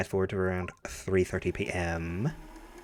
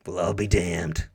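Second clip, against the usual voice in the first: low gravelly gruff detective; 4 semitones lower than usual. Acted. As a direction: growl it like a weary old cop. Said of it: "my gravelly voice".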